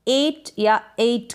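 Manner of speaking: "एट" said two ways, one after the other; two accepted pronunciations. Shown as a demonstration. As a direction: give both versions of "एट" as a teacher's demo. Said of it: "दोनों तरीके से". ("एट" के दोनों उच्चारण)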